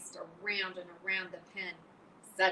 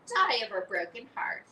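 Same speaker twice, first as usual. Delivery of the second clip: higher, louder mocking echo; mimicking Wilbur; 6 semitones higher, 8 dB louder than usual. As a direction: parrot his words back. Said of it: "he mimicked".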